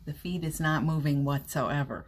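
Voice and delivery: ordinary delivery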